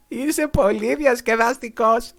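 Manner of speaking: put-on slow, loud, high delighted boy; amused boy. A narrator's reading. Boy telling the dragon he is fun, slow and loud. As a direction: savour the compliment. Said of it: "του είπε".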